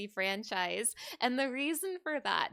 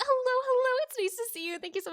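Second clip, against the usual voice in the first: excited greeting; 11 semitones higher, faster than usual. Real, not acted. Greeting game character cheerfully.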